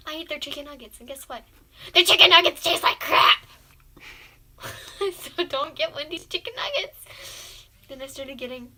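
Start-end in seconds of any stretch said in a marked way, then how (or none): 2.0-3.4 higher, loud outburst; loud complaint. Real, not acted. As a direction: blurt it out in disgust. Reveal about Wendy's nuggets.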